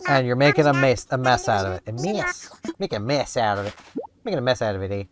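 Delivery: playful Canadian lilt on a repeated phrase; Canadian accent. Real, not acted. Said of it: "Sometimes I slip into my Canadian".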